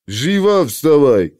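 put-on slow nasal drone with Scythian accent; nasal guard droning a name; nerd voice. (гнусавый голос со скифским акцентом)

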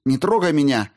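hysterical cry. A narrator's reading. Daughter recoiling from her father, hysterical cry. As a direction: shriek it to push him away. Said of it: "истерически выкрикнула Алиса".

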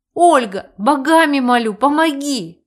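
high, loud begging; pleading. A narrator's reading. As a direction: implore her for help. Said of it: "взмолился некромант".

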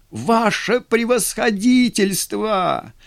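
high, slow desperate plea; a lieutenant begging the general, crying out. A narrator's reading. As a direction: cry out in despair. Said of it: "отчаянно закричал поручик".

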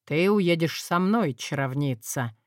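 firm, final declaration. Acted. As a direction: state it as settled. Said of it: "сообщил он твёрдо".

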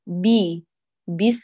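بي and بسمي with the breath flowing, not pressed; gentle ba. Shown as a demonstration. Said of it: "لا تدفقي الصوت".

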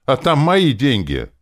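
high, loud, drawn-out protest; guard your money with a loud cry; indignant high-pitched exclamation; exclaiming. A narrator's reading. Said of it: "воскликнула демон".

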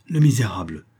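whispered, out of breath; breathless. Acted. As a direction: gasp it out after the chase. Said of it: "dit-il haletant".

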